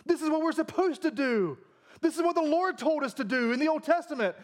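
high-pitched indignant protest; freaking out. Acted. Pharisees objecting to Jesus over their ritual, freaking out. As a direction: plead the rules in a mock panic, pitched well up. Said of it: "they're freaking out because they're like".

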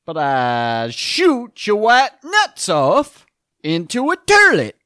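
loud, slow Bronx tough guy; Bronx accent. Retold or imitated. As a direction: drag it out like a Bronx hood. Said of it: "Be like a Bronx Tale here".

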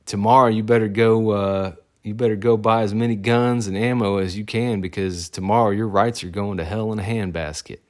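rally the guys like a fired-up boss; mock boss rallying the boys. Boss rallying his staff before the election, loud and worked up. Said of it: "he goes".

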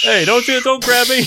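high, loud frightened protest; panicked yelp. Acted. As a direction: shriek as you're grabbed. Jackalope seized by eagles.

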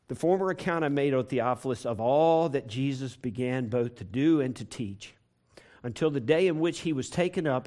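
reading scripture aloud to the church; measured Bible reading. Acted. Preacher reads the opening verse of Acts to the church, measured.

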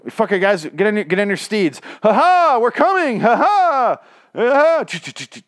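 high, loud mock-heroic battle cry; over-the-top cavalry whoop; rallying heroes. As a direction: charge in with a hammy ha-ha. Highwaymen rallying to charge in.

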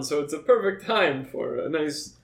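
lightly voiced stern professor; a hint of a fussy academic. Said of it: "my professor voice".

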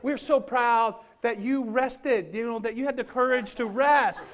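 lightly voiced sweet women cheering him on; sweet praise. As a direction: classmates praising a worn-out beginner, gushing. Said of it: "they were all so".

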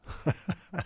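short high laugh at his own joke; a brief self-mocking laugh; amused laugh. Real, not acted. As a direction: chuckle at the word scintillating. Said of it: "I'm laughing".

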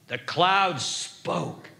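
voiced and measured, letting each word land; solemn repeat. Real, not acted. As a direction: spell out each word with weight. Slow voiced repeat of whisper.

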